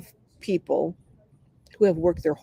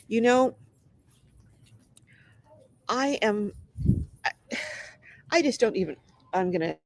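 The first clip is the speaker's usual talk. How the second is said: stuffy nose, needs to blow it; talking through a stuffy nose; blocked nose; 3 semitones higher than usual. Real, not acted. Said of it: "I have to blow my nose again".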